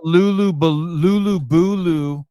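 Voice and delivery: loud, slow, high outrage; exasperated rant. Real, not acted. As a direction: rant at them in disbelief. Ranting about shirt sales.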